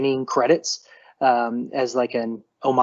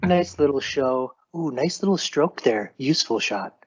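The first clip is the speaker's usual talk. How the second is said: golf announcer voice. Pretend. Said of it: "practicing your golf announcer voice".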